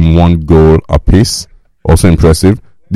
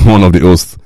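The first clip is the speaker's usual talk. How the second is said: stifled laugh while reading; holding back a laugh, smiling; smiling through words. Real, not acted. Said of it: "hear the smile in my voice".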